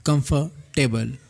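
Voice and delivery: कंफर्टेबल slowed into three syllables with a rise; कंफर्टेबल in three slow beats, rising at the end; slow syllable count. Shown as a demonstration. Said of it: "तीन syllable से मिलकर".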